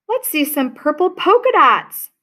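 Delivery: mock yell from a teasing classmate; calling out. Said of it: "One yelled out".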